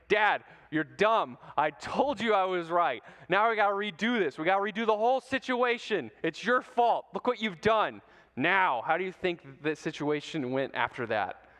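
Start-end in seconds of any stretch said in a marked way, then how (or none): 0.1-8.0 letting dad have it. Retold or imitated. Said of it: "guess who just lets him have it".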